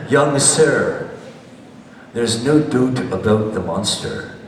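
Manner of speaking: put-on a mild Scottish accent, squared up and grave; quoting the old man in a hint of a Scottish accent. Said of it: "I like to try my Scottish accent".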